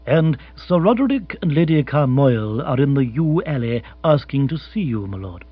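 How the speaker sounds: unruffled formal announcement; Jeeves, formal butler. Acted. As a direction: announce visitors with deferential composure. Narrator voices butler Jeeves.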